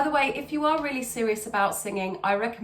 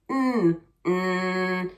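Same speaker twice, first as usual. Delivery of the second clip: growled hum; 2 semitones lower, 4 dB louder than usual. Shown as a demonstration. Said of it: "start there".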